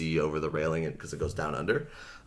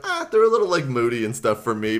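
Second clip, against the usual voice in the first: quoting Cassie; 4 semitones higher, 6 dB louder, faster than usual. Retold or imitated. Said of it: "And Cassie's like".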